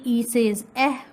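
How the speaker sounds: eh said short and clear; phonics sound. Shown as a demonstration. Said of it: "Like this".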